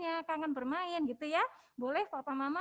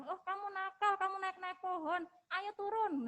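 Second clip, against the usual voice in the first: mock scolding parent, pitched a little higher; scolding label; 3 semitones higher than usual. Shown as a demonstration. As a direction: play the parent who scolds and labels the child as naughty. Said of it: "jangan langsung seperti itu ya papa mama". (orang tua yang menegur dengan nada memarahi, sedikit dibuat-buat)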